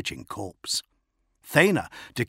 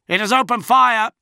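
high, loud alarm; yelling; 14 semitones higher, 10 dB louder than usual. A narrator's reading. Tracking officer warning the bridge, yelling. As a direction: yell the warning out. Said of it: "the tracking officer yelled".

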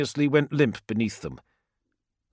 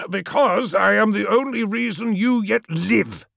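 higher, sharp irritated snap; snapped retort; 8 semitones higher, 4 dB louder than usual. A narrator's reading. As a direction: cut him down with impatience. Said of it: "snapped Menkora".

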